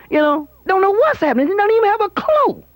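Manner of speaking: squeaky mocking disbelief; high mocking. Mocking the president, voice climbs.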